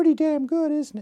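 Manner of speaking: very high voice. Retelling what he said in front of the whole class, in a very high voice. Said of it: "he talked with a very high voice".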